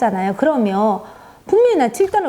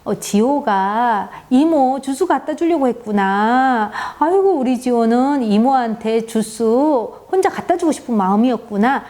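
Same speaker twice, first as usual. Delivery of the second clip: put-on empathizing with child; 2 semitones higher than usual. Shown as a demonstration. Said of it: "마음을 알아주면 됩니다".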